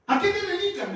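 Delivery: high, loud, laughing "¿A qué te dedicas?"; laughing question. Retold or imitated. Teacher laughing as she asks her former pupil what he does. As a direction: ask it again through a laugh.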